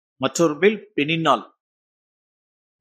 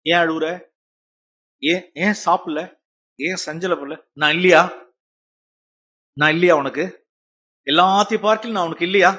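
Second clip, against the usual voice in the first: gentle husband. Acted. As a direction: comfort a weeping wife tenderly. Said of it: "என்ன spirit பாருங்க".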